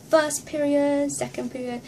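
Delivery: slow imitated Japanese accent; lightly put-on Japanese accent. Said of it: "in a Japanese accent".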